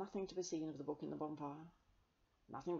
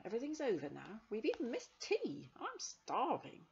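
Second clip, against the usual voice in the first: put-on whining boy; 7 semitones higher, 4 dB louder than usual. A narrator's reading. John complains.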